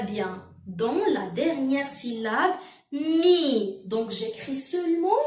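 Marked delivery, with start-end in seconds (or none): 2.9-3.8 "mi" with the m hummed long before the vowel; slow, held "mi" so the m is heard; lengthened M sound. Shown as a demonstration. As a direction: stretch both m and i in "mi". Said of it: "où j'entends le son M?".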